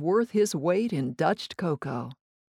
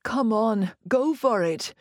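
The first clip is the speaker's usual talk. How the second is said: eager, higher urging push; 3 semitones higher than usual. Acted. Friend begging her to taste his pastry, eager urging. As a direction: Jacques pressing her to take a bite, urging. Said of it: "Jacques urged".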